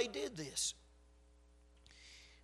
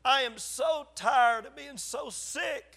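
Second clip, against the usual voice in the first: retold plea to God, higher and slow; retold child's prayer; 4 semitones higher, slower than usual. Five-year-old boy praying to God, retold pleading. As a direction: plead with God, drawing the words out. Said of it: "I remember saying".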